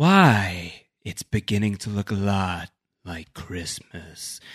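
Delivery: low, menacing why, the why dropped low and stretched. Retelling an actor reading an innocent line: menacing Benjamin Linus voice. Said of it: "deeply menacing Benjamin Linus tones".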